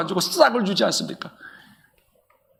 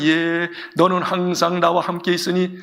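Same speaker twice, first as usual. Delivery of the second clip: gentle father; 2 semitones lower than usual. Acted. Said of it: "막 화내지 않았어요".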